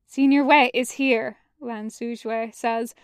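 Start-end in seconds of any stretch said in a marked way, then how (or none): 0.0-1.4 strained voice. Acted. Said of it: "voice strained".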